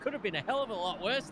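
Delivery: live motorsport commentator; excited play-by-play. Real, not acted. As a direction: call the slip as it happens.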